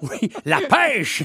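slow laughing answer. Real, not acted. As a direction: laugh through the word.

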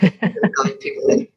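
slow, low, breathy emphasis; slow it right down to guide. Shown as a demonstration. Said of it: "slow down and make it important".

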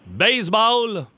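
drawn-out clue word; slowly, like a quiz host. Shown as a demonstration. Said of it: "c'est parti". (indice lancé lentement)

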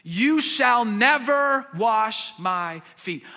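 slow emphatic protest; indignant refusal. Retold or imitated. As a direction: Peter digs in against his teacher. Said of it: "still indignant".

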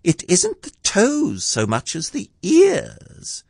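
high, slow, earnest little voice; solemn Piglet. A narrator's reading. Piglet gives his verdict on the hum, solemnly. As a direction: weigh each word in a tiny voice. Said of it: "he said solemnly".

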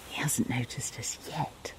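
excited hushed whisper. Real, not acted. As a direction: whisper like watching wildlife. Hiding from dog.

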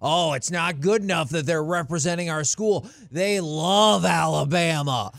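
mildly hammed-up impassioned coach speech; mock a coach pleading for his players; Nick Saban. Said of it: "a variation of that speech".

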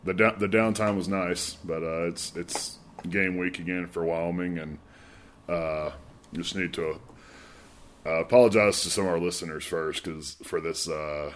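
stuffy, blocked-up nose; talking through a head cold; congested voice. Real, not acted. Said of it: "this deep, uh, congested voice I have".

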